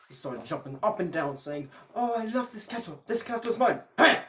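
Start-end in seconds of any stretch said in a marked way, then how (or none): 1.9-3.8 high, loud gleeful crowing; young herder overjoyed, crowing loud and high; overexcited boast. Acted. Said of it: "when he got overly excited". 4.0-4.2 angry yell. Acted. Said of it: "Big Klaus yelled".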